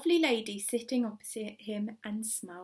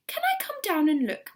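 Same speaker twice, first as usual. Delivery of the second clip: raised, higher call down; calling back; 8 semitones higher, 4 dB louder than usual. A narrator's reading. Mister Hoppy calling down to Missus Silver, raised. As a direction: shout down to her eagerly. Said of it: "Mister Hoppy shouted back".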